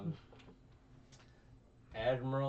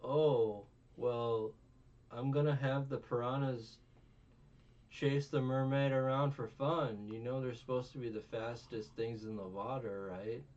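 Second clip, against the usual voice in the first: snooty noble voice; 2 semitones higher, 3 dB louder than usual. Retold or imitated. Retelling a noble's plan for the mermaid, smug and louder. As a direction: play the spoiled rich boy savoring cruelty. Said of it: "he's like".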